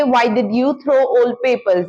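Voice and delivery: very slow, each word apart; slow model question. Shown as a demonstration. Teacher models a where question, very slow. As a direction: ask it slowly for learners. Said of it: "तुमने पुराने papers क्यों फेंक दिए".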